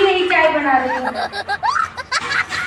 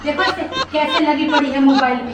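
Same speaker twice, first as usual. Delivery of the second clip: grumbling mother-in-law; 3 semitones lower than usual. Acted. Mother-in-law complaining to the audience about her son's wife, mildly whiny. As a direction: sigh about the worthless daughter-in-law like a put-upon elder.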